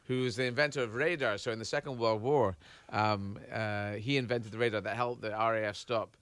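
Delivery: demonstrating a Scottish character's accent. Shown as a demonstration. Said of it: "a Scottish accent".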